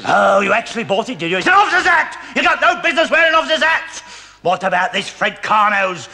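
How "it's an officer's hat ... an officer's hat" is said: indignant shout. Acted. Sergeant berates man in hat.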